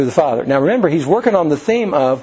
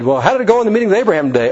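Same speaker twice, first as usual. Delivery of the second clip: quick wife question; 5 semitones higher, much faster than usual. Retold or imitated. Wife asks husband at home.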